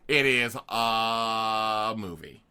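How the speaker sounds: slow, flat dry verdict; deadpan. Acted. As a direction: say it slowly like faint praise. Deadpan faint praise.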